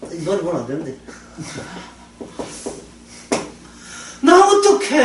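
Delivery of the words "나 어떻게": higher, laughing mock whine of a lost soul; half-laughing imitation of a worried person asking what to do; whiny mock plea. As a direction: whimper it like a helpless believer. Preacher mimics anxious believer.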